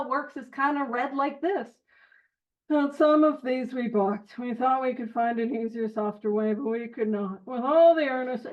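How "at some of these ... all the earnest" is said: droll and dry. Shown as a demonstration. Showing the group how the passage usually gets read, droll and dry. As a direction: read it like it barely matters. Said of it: "kinda like a little droll, a little dry".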